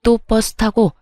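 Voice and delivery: lightly voiced seething mother-in-law, mocking; angry mother-in-law. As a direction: spit it out like a scornful mother-in-law. (비꼬는 화난 시어머니 목소리, 가볍게)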